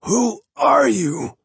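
very high, slow call after him. Acted. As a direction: call out weakly down the hall. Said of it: "called out from behind".

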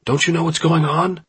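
high, incredulous yell; loud, agitated question. A narrator's reading. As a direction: yell at a friend who doesn't get it. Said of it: "Jimmy yelled".

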